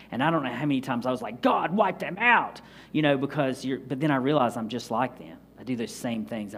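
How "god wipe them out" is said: high, drawn-out mock plea to God; imitating your own exasperated outcry. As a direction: retell a fed-up prayer, pitched up and slow.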